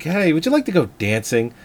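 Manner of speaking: soft, gentle invitation; sweet-talking. Retold or imitated. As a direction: coax her softly. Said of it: "he's so sweet".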